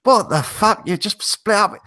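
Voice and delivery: mock German accent. German head chef mocking the heartbroken commis in a German accent. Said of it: "in a sort of German accent".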